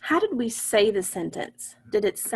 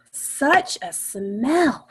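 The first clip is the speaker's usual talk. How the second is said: slow reading; 3 semitones higher, much slower than usual. Shown as a demonstration. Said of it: "this sentence came straight from our story".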